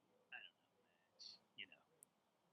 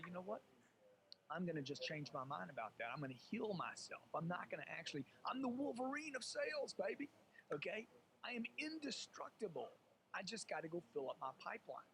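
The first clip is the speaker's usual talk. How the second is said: hyped, higher on Wolverine of sales; mock pumped-up self-talk; 3 semitones higher than usual. Salesman hyping himself up after a no. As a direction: pump yourself up like a superhero.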